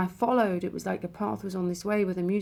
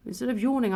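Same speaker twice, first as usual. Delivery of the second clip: gasping; 4 semitones higher, faster than usual. Retold or imitated.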